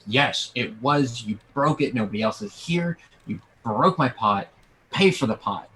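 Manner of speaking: mild mock shout, emphatic accusation; shouting vendor. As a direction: insist firmly, acting out an angry vendor. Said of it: "he's shouting".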